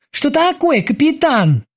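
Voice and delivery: a sudden pang of worry; worried boatswain. A narrator's reading. Sailor runs in. (взволнованный голос боцмана)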